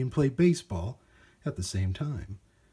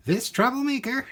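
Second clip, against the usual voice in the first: much higher, exasperated; grumbling shopkeeper; 13 semitones higher, 3 dB louder than usual. Acted. Shopkeeper handing over Clink, exasperated. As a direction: sneer it at the robot.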